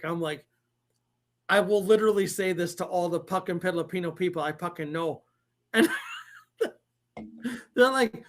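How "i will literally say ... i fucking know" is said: lightly put-on Filipino accent. Dad defending his accents to his boys, in a Filipino accent. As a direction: speak with a hint of a Filipino accent. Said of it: "super good at their fucking accents".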